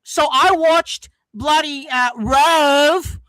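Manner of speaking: drawn-out Aussie drawl; Australian accent. Shown as a demonstration. Mel showing off Aussie talk on request, Australian accent. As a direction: put on a whiny Australian accent. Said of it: "give us some Australian talk".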